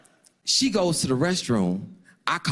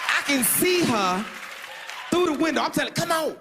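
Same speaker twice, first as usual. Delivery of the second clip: much higher, frantic pitch; high strained voice; 13 semitones higher than usual. Retold or imitated. Narrator waits outside for date, high frantic voice. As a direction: squeak it out in panic.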